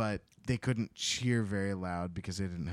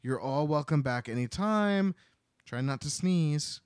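cheerful Miss Cuttenclip; 5 semitones higher than usual. Retold or imitated. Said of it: "Miss Cuttenclip is like".

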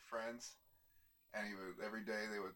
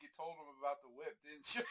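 chuckled mocking question; laughing taunt; 2 semitones higher than usual. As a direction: tease him through laughter. Neighbors mock owner.

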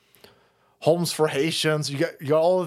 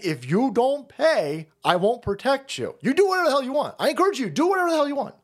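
higher, emphatic paraphrase of a blunt ultimatum; the host voicing Trump telling a NATO ally it is on its own, emphatic; paraphrasing Trump; 8 semitones higher, faster than usual. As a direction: lay down the law like a boss cutting off a freeloader. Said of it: "and saying".

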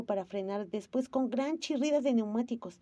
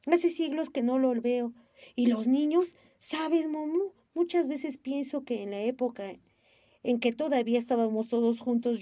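excited rush. Acted. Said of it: "siguió hablando excitadísimo".

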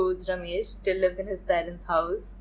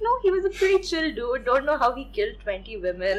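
mocking quote; 4 semitones higher, faster than usual. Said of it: "They're just like".

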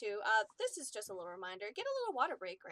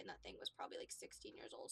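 hushed aside; 6 semitones lower, 13 dB quieter than usual. Real, not acted. Telling of old dog.

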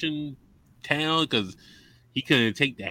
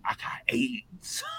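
mock crying confession; 11 semitones higher, 6 dB quieter, slower than usual. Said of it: "the clip I sent y'all was like".

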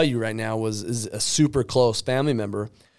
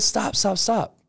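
quick, higher-pitched interruption; cutting him off; 7 semitones higher, slower than usual. Retold or imitated. Speaker stopping his relative's excuses mid-sentence, insistent interruption. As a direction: cut in over his excuse.

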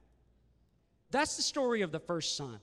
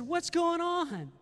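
retold bewilderment; 12 semitones higher, 6 dB louder, slower than usual. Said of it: "He said".

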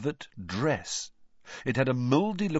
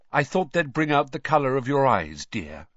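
mildly fond; 5 semitones higher, 4 dB louder than usual. A narrator's reading. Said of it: "said Missus Weasley fondly".

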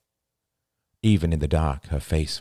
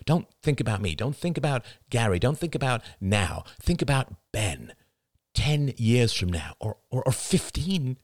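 earnest, urgent pleading; 6 semitones higher than usual. Acted. Husband begging his wife to think of their son, pleading. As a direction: press gently but insistently, stumbling toward the point.

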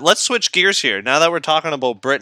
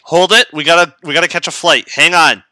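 louder mock-urgent interruption; mock urgency; 3 semitones higher, 5 dB louder than usual. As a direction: play at halting everything in a rush. Imagined urgency during labor.

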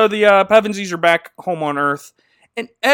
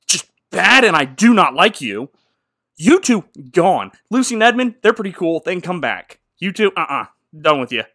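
mock scolding lion. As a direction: tell them off, hammed up. Aslan scolding Peter and Susan.

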